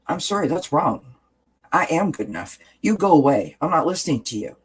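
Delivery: firm reply to the inner critic, rising on you go away; firm self-talk. Shown as a demonstration. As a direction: stand up to the voice, no arguing. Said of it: "You have to say".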